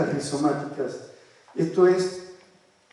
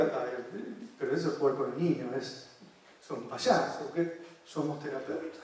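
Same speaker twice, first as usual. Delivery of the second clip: mock dogmatic scoff; 3 semitones lower, 10 dB quieter than usual. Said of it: "cualquier dogmático diría".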